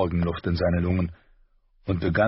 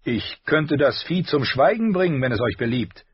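Hound offering; 7 semitones higher, 3 dB louder than usual. A narrator's reading. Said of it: "sagte er durch das offene Visier".

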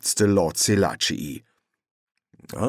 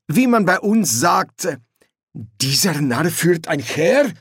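higher, slow, knowing royal tone; amused prince voice; 9 semitones higher, 5 dB louder, slower than usual. Acted. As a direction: savor the insult politely. Prince quotes a saying.

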